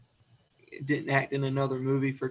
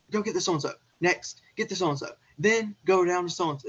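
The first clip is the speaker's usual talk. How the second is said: raised-pitch rapid-fire orders; mock boss dictating, higher and insistent; imitated dictating; 5 semitones higher, 4 dB louder, faster than usual. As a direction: reel off orders like a busy executive. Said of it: "him dictating to other people".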